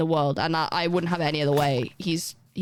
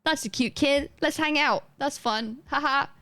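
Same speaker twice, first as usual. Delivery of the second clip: higher, mock-cheerful about a stranger's kid; fake-enthusiastic aside; 7 semitones higher than usual. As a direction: gush politely, then a hollow laugh. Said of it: "I'm like".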